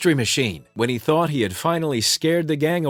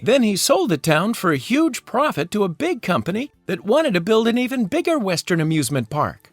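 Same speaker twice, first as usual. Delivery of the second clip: a higher, lightly voiced clever girl explaining; Velma voice; 5 semitones higher than usual. Velma explaining the villain's scheme to the gang, higher voice. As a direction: lift the pitch and lay out the case like the brainy sleuth. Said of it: "Velma explained".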